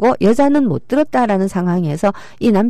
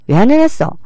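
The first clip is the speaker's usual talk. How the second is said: higher, louder mock scolding from the wife; wife scolding husband for not cleaning, raised mock anger; wife's scolding; 5 semitones higher, 4 dB louder than usual. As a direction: demand it like an annoyed wife. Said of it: "부인이".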